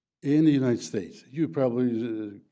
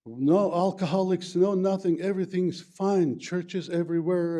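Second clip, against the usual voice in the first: welcoming America; 5 semitones higher, 3 dB louder than usual. Retold or imitated. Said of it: "United States said".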